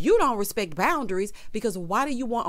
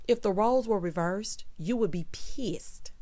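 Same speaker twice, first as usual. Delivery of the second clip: slow whispered aside; confiding whisper to the camera. Real, not acted. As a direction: hiss it under your breath. Scolding him aside.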